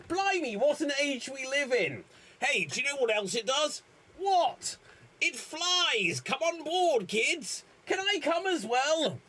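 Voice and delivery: put-on high, lively child voice; high chirpy child; excited kid. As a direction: play the wide-eyed kids. Performing film characters.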